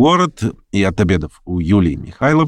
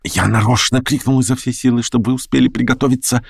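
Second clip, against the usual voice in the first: plain reading voice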